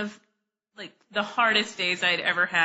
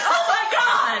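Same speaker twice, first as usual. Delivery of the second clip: higher, louder, slower startled cry; startled outcry; 13 semitones higher, 6 dB louder, slower than usual. Retold or imitated. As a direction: caught off guard by someone hiding. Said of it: "he's like".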